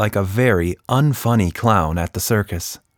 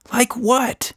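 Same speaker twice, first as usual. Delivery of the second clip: high, rising puzzled question; a small girl, baffled. A narrator's reading. Tilda asks.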